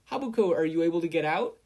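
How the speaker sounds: high loud referee call. A narrator's reading. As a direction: shout across the arena. Referee calls to pinned girl.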